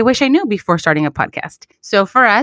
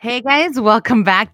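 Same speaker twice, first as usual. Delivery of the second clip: DJ voice; 3 semitones higher, slower than usual. Shown as a demonstration. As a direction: greet them like a radio DJ. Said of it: "It sounded like a D J".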